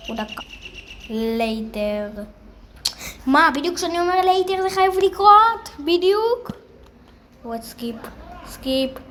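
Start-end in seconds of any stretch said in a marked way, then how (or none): 3.3-6.5 higher, louder indignant complaint; indignant disbelief. Real, not acted. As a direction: complain at the unfair timing. Indignant at bad timing. (תלונה נרגזת, גבוהה ורמה)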